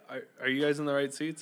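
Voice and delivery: soft, hesitant polite question. Acted. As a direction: ask gently, stumbling slightly at the start. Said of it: "you can be polite".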